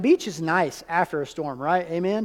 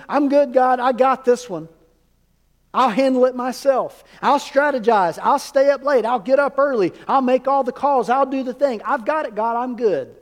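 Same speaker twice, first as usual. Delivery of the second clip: higher, louder, breezy self-confident "I've got this" voice; self-assured inner voice; 5 semitones higher, 4 dB louder than usual. Retold or imitated. Preacher mimicking his own cocky self-talk, breezy and sure. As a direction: brush God off with easy confidence.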